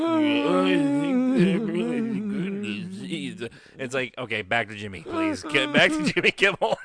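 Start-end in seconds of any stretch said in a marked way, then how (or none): 0.0-3.5 put-on slow high mumbling old man; frail old man voice. Impersonating old Norman Lear. 5.0-6.8 exasperated. Retold or imitated. Mock exasperated plea.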